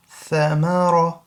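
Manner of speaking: in ثمر round the ra fully, tha between the teeth; full-mouth ra. Shown as a demonstration. Teacher modelling ثمر, slow, with full-mouth ra. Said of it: "ra has to be a full mouth".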